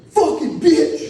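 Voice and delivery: high, long mock holler; retold angry insult. Friend cursing as he goes to leave, mock angry holler. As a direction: stretch out the curse, imitating his yell.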